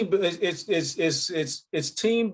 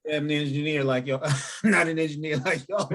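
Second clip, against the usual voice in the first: laughing. Real, not acted. Joking about his math skills.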